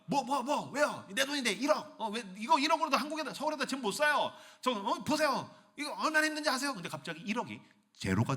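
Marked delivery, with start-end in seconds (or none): 0.1-6.7 high-pitched, stammering mock indignation; flustered protest. Saver arguing with God over savings, flustered. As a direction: splutter in defence of your savings.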